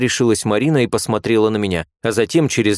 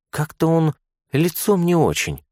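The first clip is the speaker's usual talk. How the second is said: quiet nurse remark; 8 semitones higher than usual. A narrator's reading. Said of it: "тихо произнесла первая".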